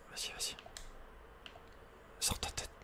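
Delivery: ordinary talk, nothing marked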